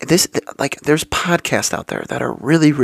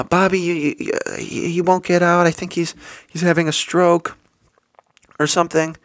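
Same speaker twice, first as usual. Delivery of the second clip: higher, breathless frightened voice; the wife begs for help in panic; panicked plea; 4 semitones higher than usual. Retold or imitated. Neighbour wife pleading with him to help, frightened.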